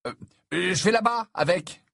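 high, halting stammer; flustered hesitant mumbling excuse; at a loss. A narrator's reading. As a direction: fumble for an excuse to leave. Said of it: "qui ne trouva rien d'autre à ajouter".

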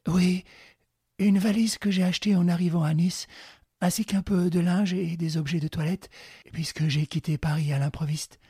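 a hint of a nervous young woman; Clarisse answering. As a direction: answer plainly, a little anxious.

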